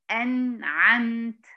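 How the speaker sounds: "أنعمت" slowly split in two, an... 'amt; wrongful gap. Shown as a demonstration. Teacher imitating learners' mistake, "أنعمت" broken after ن. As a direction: hold apart the ن and ع of "أنعمت". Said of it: "تعمل فاصل بين النون وبين العين".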